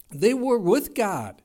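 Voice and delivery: full-force preaching burst; rising preacher shout. Real, not acted. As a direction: build to a pulpit climax. Preacher building to a climax.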